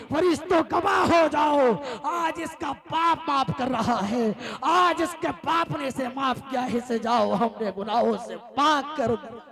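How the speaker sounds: loud, ringing proclamation from heaven; proclaiming shout. Acted. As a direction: announce it like a voice from above. (گرجدار اعلان)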